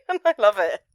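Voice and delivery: high, loud, laughing through it; laughing delight. Real, not acted. The podcaster laughs about the karaoke scene, delighted. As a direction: giggle with delight. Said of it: "delighted laughing".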